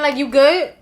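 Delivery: a sceptical check-in; side-eye you good; skeptical you good. Shown as a demonstration. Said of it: "with the eyebrow up".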